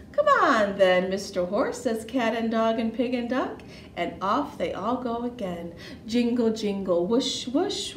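put-on lively storytelling for small children with swooping pitch; animated children's story narration; picture book read-aloud. A narrator's reading. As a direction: read it playfully, punching the sound words.

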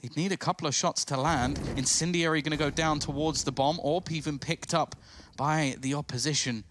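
lively esports play-by-play call; esports caster. Real, not acted. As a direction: build tension as the clutch unfolds. Live play-by-play, rising tension.

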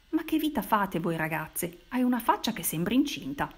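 a half-voiced scolding yell; mild shout. Signora Bice scolding the girls, a mild shout. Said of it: "gridò".

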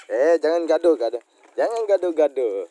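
loud scolding of squabbling animals. Real, not acted. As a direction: shout them apart. (menegur keras hewan yang berkelahi)

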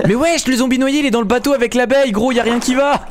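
high, laughing disbelief; excited laughing. Real, not acted. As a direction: gush about the absurd scene. Amazed at zombie with bee. (rire excité et aigu)

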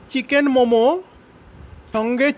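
muffled behind cloth mask; speaking with covered mouth; through a face mask. Real, not acted. Seen 4: Speaker with lapel mic wears surgical mask; later shots show hands only.

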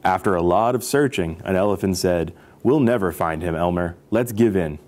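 expressive picture-book narration; story read-aloud. A narrator's reading. Storyteller reading about elephants to children, lively narration.

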